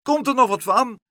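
high, loud gull's complaint; impatient screech. A narrator's reading. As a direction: screech it with no patience left. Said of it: "krijste nog veel ongeduldiger". (ongeduldig krijsen, hoog)

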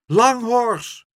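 high, loud alarmed call. A narrator's reading. Soldiers running up to their horse, calling out. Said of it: "riepen ze".

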